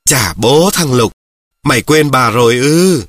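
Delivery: slow, affectionate grandma's chiding; a grandmother gently scolding her grandson; fond scolding. Acted. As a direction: scold him lovingly, slowly. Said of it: "bà mắng yêu".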